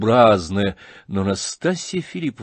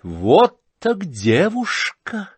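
delighted cry; 9 semitones higher, 3 dB louder, much slower than usual. Acted. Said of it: "крикнула Настасья Филипповна".

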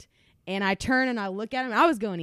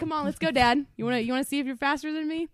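trash talk; 5 semitones higher, faster than usual. Retold or imitated. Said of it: "So then I'm like".

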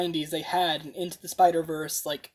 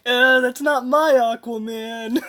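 higher, louder and slow, laughing through it; a playfully offended fan, giggling; laughing mock complaint; 5 semitones higher, 6 dB louder, slower than usual. Joking about Aquaman to friend, laughing mock complaint. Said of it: "I'm looking at it like".

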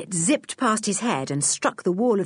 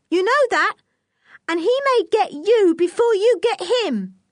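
put-on high-pitched young boy voice; Nobby, a defiant boy; 13 semitones higher, 5 dB louder than usual. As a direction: pitch it way up, pressing the warning.

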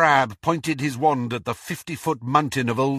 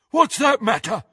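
high-pitched, defiant comeback; truculent retort; 9 semitones higher, 3 dB louder than usual. A narrator's reading. Crabbe tugs free of Malfoy, truculent. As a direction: argue back stubbornly.

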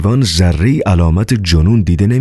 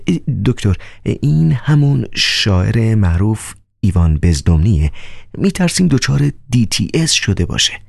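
Riukhin, nervous and higher, half-whispering; anxious secretive voice, pitched up; mysterious whisper; 5 semitones higher than usual. Acted. Riukhin anxiously confiding in the doctor, higher and hushed. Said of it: "با پچپچی مرموز".

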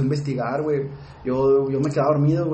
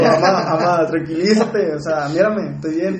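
louder, urgent pleading to calm her; pleading son; 3 semitones higher, 4 dB louder, slower than usual. Retold or imitated. Son calming his panicked mother, louder and urgent. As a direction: beg her to calm down, a bit loud.

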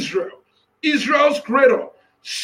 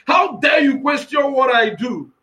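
voicing God; 2 semitones higher than usual. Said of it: "That's what God is asking somebody".

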